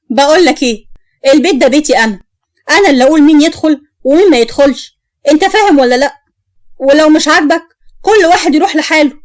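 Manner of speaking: wife telling her husband who enters her house, angry; angry quarrel. Acted. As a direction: lay down the law to the husband.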